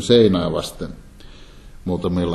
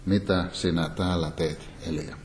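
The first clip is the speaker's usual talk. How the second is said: softer, fading down to near silence; God asks quietly after the storm; hushed still voice; 3 semitones lower, 8 dB quieter than usual. Acted. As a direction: let the question fall away quietly like a still small voice. Hiljainen tuulen hyminä.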